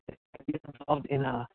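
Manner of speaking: muffled bad phone line; garbled, like talking under water; underwater. Real, not acted. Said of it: "you sound like you're underwater".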